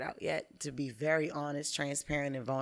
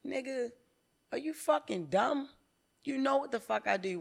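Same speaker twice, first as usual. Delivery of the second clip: higher, exasperated retold outburst; mock angry rant at coach; 8 semitones higher than usual. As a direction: snap at the coach in disbelief. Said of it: "I be getting mad at the coach like".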